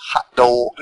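"hot dog" the New York way, DAWG; New York "dog" with a drawn-out, rounded aw; New York accent. Shown as a demonstration. Showing how New York folks say hot dog, New York accent. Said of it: "don't say it like the New York folks".

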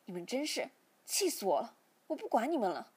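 furious outburst. A narrator's reading. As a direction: snap it as you sweep everything off the desk. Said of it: "便生气地把台上的物品都扫到地上".

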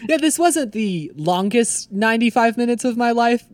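chuckling through the words, slowed; fighting back a laugh. Real, not acted. Retelling his joke while laughing.

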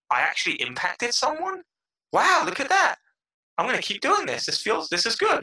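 high, amazed self-talk; retold happy surprise. Podcaster reading a listener's praise, acted happy surprise. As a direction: relive astonishment turning to eagerness.

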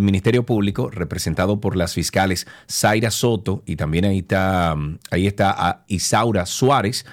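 measured radio news delivery, key names drawn out; formal newscast reading with weighted names. Acted. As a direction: read the court report like a radio newscaster. Radio host reads court news.

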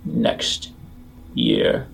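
deep gravelly voice. Acted. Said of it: "in a deep kind of gravelly voice".

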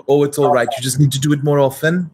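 a hint of a reassuring accented nanny; Missus Doubtfire. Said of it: "You sound like Missus Doubtfire".

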